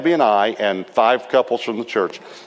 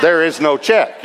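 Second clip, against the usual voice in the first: slow, louder, laughing confession; laughing admission; 6 semitones higher, 4 dB louder, slower than usual. Real, not acted. Preacher laughing at his own lie to the man. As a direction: let the truth out through a laugh.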